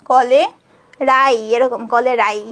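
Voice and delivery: কলে and রাই said apart, ending in a clear ই sound; syllable split demo. Shown as a demonstration. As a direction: break কলে রাই into its two parts for the class. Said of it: "আমরা উচ্চারণ করব হচ্ছে ই". (কলে-রাই ভেঙে উচ্চারণ)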